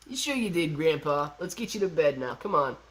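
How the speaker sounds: lightly imitated grandkid; a hint of a kid humoring grandpa; kid's voice. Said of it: "that was a pretty good kid's accent".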